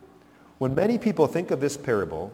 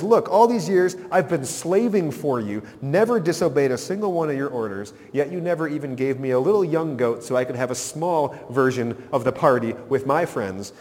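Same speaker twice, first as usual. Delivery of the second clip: put-on older son grumbling at his father, lightly angry; mock angry son. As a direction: complain like a sulking son who feels cheated. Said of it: "he's mad at his father".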